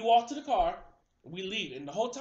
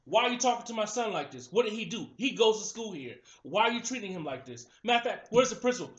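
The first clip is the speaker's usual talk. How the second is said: raised, indignant motherly challenge; mom confronting; 2 semitones higher, 4 dB louder than usual. Retold or imitated. Mother defending her son to the officer, indignant. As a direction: demand answers like a fierce mom.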